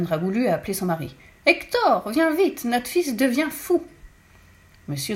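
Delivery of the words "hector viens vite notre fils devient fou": high, loud call that slows on the last words; panicked call. A narrator's reading. Mother calling her husband for help, panicked shout. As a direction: shout for your husband in alarm.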